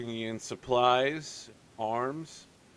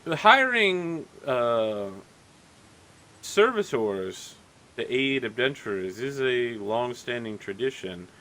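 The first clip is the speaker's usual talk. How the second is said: smug innkeeper; 6 dB louder than usual. Acted. Innkeeper mocking the poor adventurers, smug and loud. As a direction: talk down to them with a smug edge. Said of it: "looks at you again and says".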